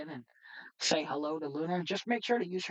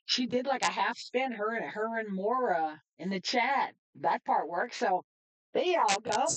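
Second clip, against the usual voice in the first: excited; 6 semitones higher than usual. Real, not acted. Thrilled the AI spin works.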